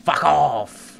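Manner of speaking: high, loud curse; angry shout. Real, not acted. Gamer shouting at the creeper to go away. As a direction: snap it at the monster.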